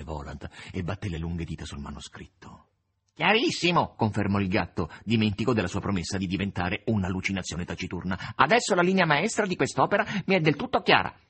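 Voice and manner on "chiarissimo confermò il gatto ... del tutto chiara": smug cat claiming it understands; lightly voiced cat. The cat speaks again.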